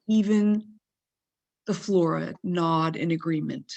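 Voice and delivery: emphatic opening settling into measured recital; poem reading. Acted. Poet reading her January first poem to listeners, emphatic recital. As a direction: address the listener directly, phrase by phrase with pauses.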